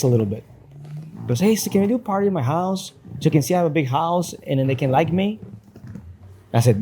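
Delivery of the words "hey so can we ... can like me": put-on lightly higher pleading child voice; a hint of a boy begging for a party; kid voice. Son begging dad for a party, lightly higher kid voice.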